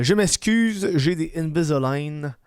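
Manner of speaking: lisping through new aligners; slushy sh for s. Real, not acted. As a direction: talk around plastic on the teeth. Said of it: "je, je zozote".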